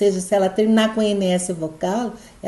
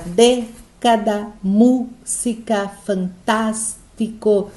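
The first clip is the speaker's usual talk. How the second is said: "década, música, fantástico" slowly split, stressing dé, mú, tás; slow dictation of "década, música, fantástico", beat by beat; tonic syllable demo; much slower than usual. Shown as a demonstration. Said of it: "a sílaba tônica".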